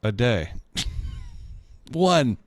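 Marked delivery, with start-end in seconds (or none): 0.0-0.5 put-on Minnesota accent. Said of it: "that's a Minnesota thing".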